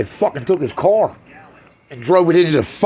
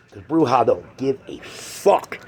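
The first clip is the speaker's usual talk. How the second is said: slow, hushed, threatening whisper; menacing whisper; 5 semitones lower, 3 dB quieter, much slower than usual. Acted. Comic warns the crowd about Bruja in a slow whisper. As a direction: breathe it out slowly like a dark warning.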